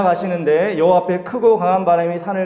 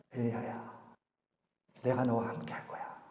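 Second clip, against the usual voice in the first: much softer, lower and tender; soft gentle voice; 7 semitones lower, 17 dB quieter than usual. Acted. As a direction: speak it like a close friend at your side. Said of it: "부드러운 소리라는 거야". (부드럽고 다정하게 낮춘 목소리)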